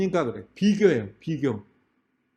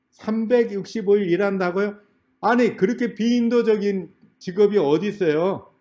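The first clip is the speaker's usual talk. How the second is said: higher-pitched, incredulous challenge; acted-out objection, pitched up; indignant protest; 4 semitones higher than usual. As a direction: argue back like an outraged applicant. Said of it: "어, 따지는".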